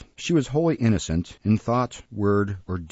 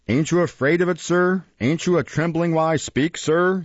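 high, insistent rhetorical questions; intimidating challenge; 7 semitones higher than usual. Acted. Beadle trying to frighten the locked-in boy, imposing challenge. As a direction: press each question with raised pitch.

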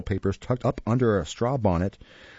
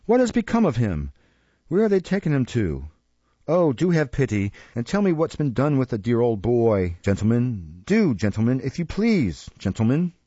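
heartbroken pleading. Acted. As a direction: beg the gentlemen through fake tears. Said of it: "lamentable and heartbroken tone".

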